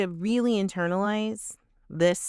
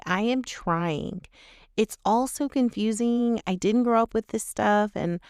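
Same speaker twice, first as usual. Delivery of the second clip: toxic apology; 2 semitones higher than usual. Shown as a demonstration. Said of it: "here is a toxic apology".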